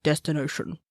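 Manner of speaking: soft, distant echoed repeat of "Destination"; spooky echo. Pretend. Podcast host echoing the show's title in a spooky voice, quietly. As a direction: let "Destination" ring back softly like an echo. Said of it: "That's my Jersey Devil accent".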